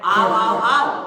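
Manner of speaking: loud drawn-out welcome; sleep-talking merchant calling to the thieves. Retold or imitated. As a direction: call them in loudly from sleep. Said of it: "सेठ जी क्या कह रहे हैं?".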